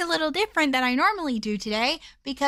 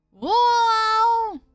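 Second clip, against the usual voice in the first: surprised; 8 semitones higher, 6 dB louder than usual. Real, not acted. Discovery in game.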